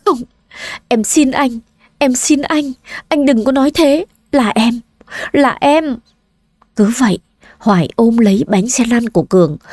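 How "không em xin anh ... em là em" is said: high, pleading wife voice; desperate begging. Acted. Wife begging her husband not to blame himself, high and desperate. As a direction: plead with him to stop blaming himself.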